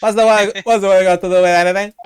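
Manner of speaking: fast, loud British voice; blustering British accent. Acted. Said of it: "he's gotta be British".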